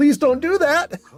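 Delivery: very high, desperate begging plea. Recounting a tabletop game, the speaker re-enacts begging another player, retelling a plea. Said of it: "I'm like begging them not to do this".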